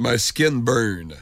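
slow, lightly drawled Texan English; a hint of a Texas twang, drawn out; lightly imitated Texan cowboy drawl; Texan accent. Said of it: "parlant avec un fort accent texan".

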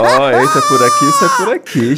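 crying with laughter; laughing. Real, not acted. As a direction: talk through laughing. Laughing fit while telling.

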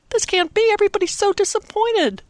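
put-on high, loud childlike protest; dismayed children crying out. A narrator's reading. Choir kids protest to the organist, high dismayed cry. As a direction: kids begging not to cancel. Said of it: "the kids in the choir cried".

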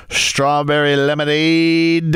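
drawn-out, slow "strawberry lemonade"; accidental auctioneer. Real, not acted. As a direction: slowly stretch "strawberry lemonade" like a bidder. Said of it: "it sounded like an auctioneer there".

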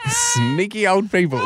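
laughing hard, high and breathless. Real, not acted. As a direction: crack up while talking. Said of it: "laughing through".

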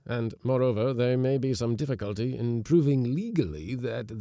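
cautious magistrate. A narrator's reading. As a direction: magistrate cautioning the young wife, measured and kindly.

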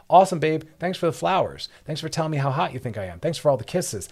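high, loud, breezy thanks to the partner; breezy mock thanks. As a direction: brush off the gifts with bright over-the-top gratitude. Acted reply to love-bombing partner.

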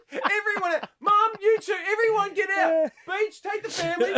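high mock shout; exasperated dad. Dad ordering family out of the shower, exasperated high shout. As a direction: holler at the whole family, voice way up.

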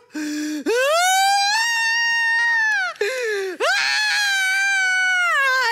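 long high loud wailing cry; wailing sob. Retold or imitated. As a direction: break down into a loud high wail. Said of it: "I wailed".

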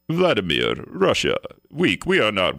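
testing out a rough Russian accent; half-hearted fake Russian accent, word by word; attempted Russian accent. Shown as a demonstration. Radio host trying it off the top of his head, attempted Russian accent. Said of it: "if I hear a Russian accent".

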